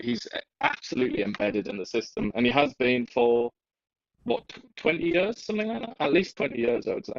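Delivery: muffled, watery mic sound; like talking from underwater. Real, not acted. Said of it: "you sound like you're underwater a little bit there".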